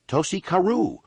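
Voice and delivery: high frantic cry of the name; a frightened local shrieking the name; frantic scream. A narrator's reading. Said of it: "one of the men screamed frantically".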